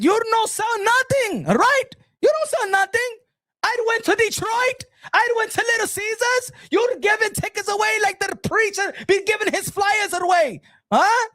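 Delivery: high-pitched shouted put-down; mock-outraged tirade; scornful rant. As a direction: shout the boast down. Shouting down her boast.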